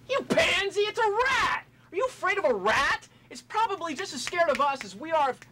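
mock the other man with a cracking, tearful rant; macho outburst. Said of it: "this macho outburst".

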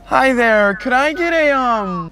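put-on high, loud Canadian accent at the counter; chirpy Canadian accent for the cashier. Ordering food from the cashier in a put-on Canadian accent. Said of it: "the new accent I've been ripping".

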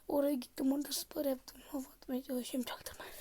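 hushed boasting whisper. Real, not acted. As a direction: keep it secret, whisper.

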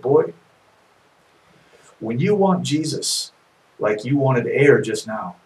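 put-on preacher calmly teaching the gasping boy, placid. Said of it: "the preacher was very calm, very placid".

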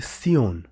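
sion with an S sound, not SH; TION said as sion. Shown as a demonstration. Teacher showing learners how French TION sounds, as sion. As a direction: say sion as 'see-on' with a French ending. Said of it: "T I O N is".

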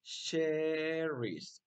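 "cherries" stretched on the first syllable; slow, clear "cherries"; model for repeating. Shown as a demonstration. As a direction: hold "cherries" long for learners. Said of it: "Once again".

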